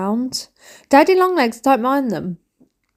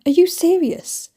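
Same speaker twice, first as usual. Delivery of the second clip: much higher disbelieving question; incredulous; 8 semitones higher than usual. Retold or imitated. Wife challenging husband about cake mix, incredulous. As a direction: sound mock outraged at the mess. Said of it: "I'm like".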